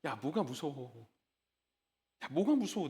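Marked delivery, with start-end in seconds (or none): 0.0-1.1 much softer and lower, slow and tender; soft, slow reassurance. Retold or imitated. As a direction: hush it like soothing a scared child. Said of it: "이렇게". (아주 부드럽고 낮게, 천천히 다독이듯)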